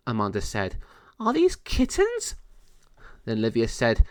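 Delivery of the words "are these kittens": very high, slow fairy voice; curious fairy. Acted. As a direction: ask it wide-eyed, slowly. Fairy asks about the kittens.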